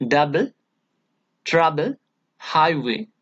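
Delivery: "double, trouble, highway", each stressed on its first syllable. Shown as a demonstration. Teacher lists trochee examples, first syllables stressed. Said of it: "first syllable of the word".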